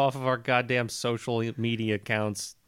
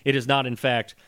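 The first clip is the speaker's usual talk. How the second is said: mock lecture; 6 semitones lower, 6 dB quieter than usual. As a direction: explain it down to him, softly.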